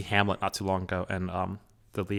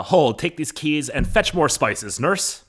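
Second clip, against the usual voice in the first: high, slow, declaimed order; play reading aloud; 7 semitones higher, 5 dB louder, slower than usual. Acted. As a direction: call out orders to the nurse, pitched high. Reading Capulet household's lines aloud.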